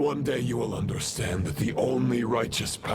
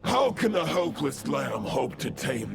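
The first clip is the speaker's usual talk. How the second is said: stern challenge; 5 semitones higher than usual. Acted. Possessed knight taunts in the duel.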